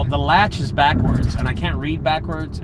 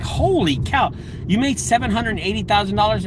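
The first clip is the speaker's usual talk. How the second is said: retold amazement; 6 semitones higher than usual. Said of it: "And I said".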